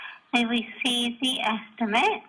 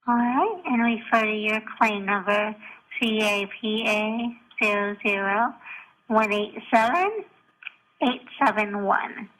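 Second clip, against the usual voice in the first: voicemail over the phone; recorded phone message; answering machine message; 6 dB louder than usual. Real, not acted. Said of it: "this gem of a voicemail".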